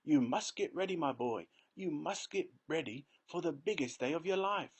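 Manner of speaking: high, rapid-fire list of orders; excited old man. A narrator's reading. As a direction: rattle off the chores with glee. Grandpa Joe excited orders.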